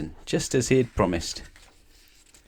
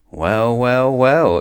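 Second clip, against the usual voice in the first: exclaimed; 4 semitones higher, 6 dB louder, much slower than usual. A narrator's reading. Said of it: "exclaimed the wizard".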